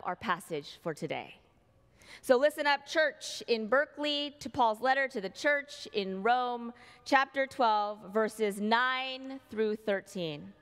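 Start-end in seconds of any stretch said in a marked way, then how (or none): 2.2-10.5 scripture announcement. Acted.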